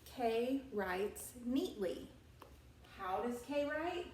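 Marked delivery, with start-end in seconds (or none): 0.0-2.1 slow, with "neatly" lifted and stretched; stress on neatly. Shown as a demonstration. Teacher stressing the adverb "neatly" for her class. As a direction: lean into the word "neatly" slowly. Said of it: "So neatly becomes our adverb".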